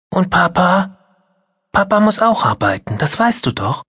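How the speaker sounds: put-on small girl hoping for her father; disappointed child. Mia asking her mother about Papa, hopeful.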